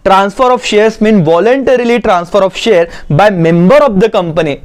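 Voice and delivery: slow, measured reading for note-takers; dictation reading. Acted. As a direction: read out the definition slowly, phrase by phrase. Reads notes aloud again. (धीरे-धीरे notes लिखवाते हुए पढ़ना)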